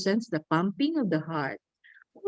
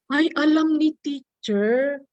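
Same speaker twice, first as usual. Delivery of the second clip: lightly voiced kid, higher and slow; a touch of an amazed kid; 5 semitones higher than usual. Teacher imitating a child amazed she knows the sign. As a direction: gasp like a child impressed by teacher. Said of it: "Alam niya na ang sign sa crush".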